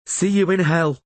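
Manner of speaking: high, loud hard farewell; grim parting. A narrator's reading. Rayla speaking grimly as she kills Vilis. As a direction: spit it as a dark promise.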